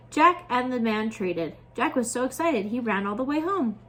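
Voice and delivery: put-on a gentle, expressive read-aloud for kids; animated children's story voice; storybook narration. A narrator's reading. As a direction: tell it like a bedtime story to little ones. Reads fairy tale to children.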